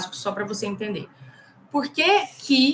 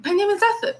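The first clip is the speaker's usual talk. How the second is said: higher-pitched British mumble, R dropped; British accent; 11 semitones higher than usual. Retold or imitated. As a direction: imitate an unintelligible Brit swallowing the R. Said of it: "Ele come o R".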